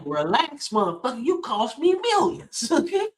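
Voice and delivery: hammed-up threat, laughing through it; mock tough guy. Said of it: "He's like".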